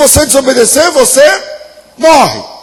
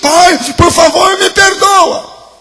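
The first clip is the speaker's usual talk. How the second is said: higher, drawn-out plea, voice straining; tearful pleading child; 5 semitones higher, much slower than usual. Pretend. Kneeling child begging father, higher and tearful. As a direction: beg the father through tears, stretching perdoa. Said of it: "com o olho cheio de água, tremendo".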